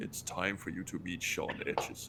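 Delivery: low, soft, mysterious, secretive tone.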